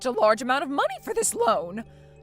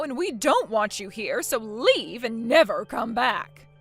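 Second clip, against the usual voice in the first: loud, slowing, final order to leave; angry disowning; 4 dB louder than usual. Acted. Mother-in-law banishing her daughter-in-law, angry and louder. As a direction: throw her out of the family.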